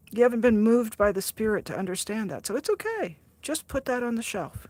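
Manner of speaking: imitating a soothing church mentor; mild reassuring mentor. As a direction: coax a doubter gently, like a church mentor. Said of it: "the saying is".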